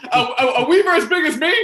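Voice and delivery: put-on high, loud squeaky child; little boy. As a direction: pipe up like an eager small boy.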